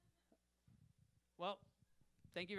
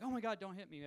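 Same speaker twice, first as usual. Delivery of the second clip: mock scared plea; 5 semitones higher, 7 dB louder than usual. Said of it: "I'm so scared of her".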